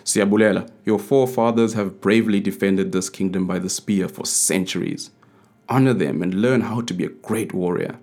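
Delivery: a father-king begging his son; pleading king. Acted. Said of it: "the king pleaded with his firstborn son".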